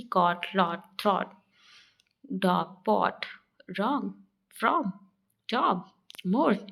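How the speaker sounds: कॉट, लॉट, थ्रॉट with rounded 'aw'; one at a time, rounded vowel in डॉग, पॉट, जॉब; 'aw' vowel demo. Shown as a demonstration. Teacher giving examples of O, rounded 'aw' in कॉट and लॉट. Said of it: "औ की मात्रा में होता है".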